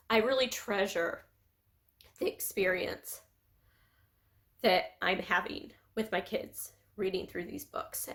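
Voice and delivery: halting, broken up by long pauses; tearful. Real, not acted. Mother treasuring time reading with her kids, tearful. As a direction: hold back real tears between phrases. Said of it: "like, crying".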